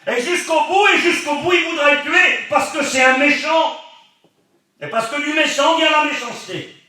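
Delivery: high, loud, urgent sermon voice; a preacher at his loudest, warning the congregation; preaching at full force. Acted. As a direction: drive the warning home from the pulpit. Preaching climax.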